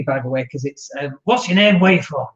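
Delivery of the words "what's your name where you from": lightly put-on northern English accent; a quick northern English greeting, half-joking. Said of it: "northern accent".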